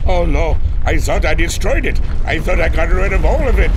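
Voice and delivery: high, loud anguished cry; dismayed. Acted. Captain learns his invention survived and cries out in high, loud dismay. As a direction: wail at the failure.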